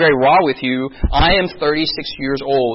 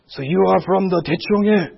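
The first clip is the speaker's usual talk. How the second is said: imitated Korean elder; faster than usual. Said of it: "I'll talk to someone in Korea".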